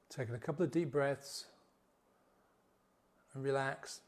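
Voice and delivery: calm, unhurried closing of a meditation; guided meditation. Acted. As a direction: bring them out gently, with long pauses.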